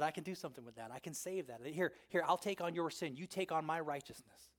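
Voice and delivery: soft, low, reassuring voice; tender, understated offer of mercy; gentle offer. Retold or imitated. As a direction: quietly offer to take the burden. Voices Jesus offering sinners a trade.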